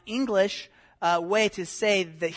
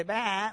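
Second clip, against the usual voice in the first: sheep bleat; 2 semitones higher than usual. Shown as a demonstration. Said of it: "teach the kids what a sheep says".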